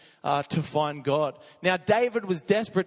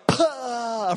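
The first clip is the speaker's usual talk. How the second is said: mock winded gasp; 5 semitones higher than usual. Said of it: "the wind is just like".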